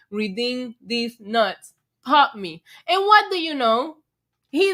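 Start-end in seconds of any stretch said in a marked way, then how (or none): 0.1-1.7 quoting the line. Retold or imitated. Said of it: "the line".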